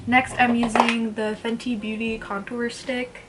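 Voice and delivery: slow, oddly voiced product name; odd put-on voice. Real, not acted. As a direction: say the brand like a quirky announcer. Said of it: "I don't know why I said it like that".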